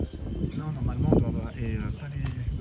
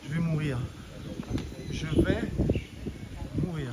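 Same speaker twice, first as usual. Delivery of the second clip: out of breath; 6 dB quieter than usual. Real, not acted. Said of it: "je reprends mon souffle".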